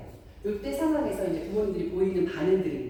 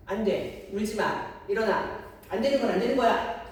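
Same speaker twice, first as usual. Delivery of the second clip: firm, strict parent; 3 semitones higher, 3 dB louder than usual. Acted. Parent to child crying in a store, firm. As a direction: put your foot down with a crying child. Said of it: "이렇게 강하게 말을 할 수도 있겠죠".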